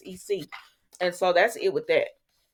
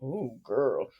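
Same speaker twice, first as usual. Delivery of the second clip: hushing; 7 semitones lower, 7 dB quieter, much slower than usual. Retold or imitated. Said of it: "I said".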